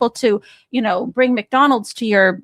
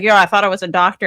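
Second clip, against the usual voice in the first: mocking Trump; 3 semitones lower, faster than usual. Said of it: "he's like".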